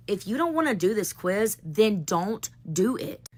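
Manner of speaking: slow, firm challenge to the class; firm ultimatum. Retold or imitated. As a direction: lay down the line, deliberately slow on the second half. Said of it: "I finally just paused and I looked at all them".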